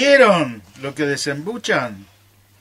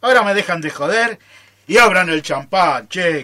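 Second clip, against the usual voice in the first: cheerful shout; 2 semitones higher, 7 dB louder than usual. Acted. Demanding champagne and a celebration.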